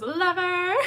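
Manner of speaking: squealy gush. Retold or imitated. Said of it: "Alice goes".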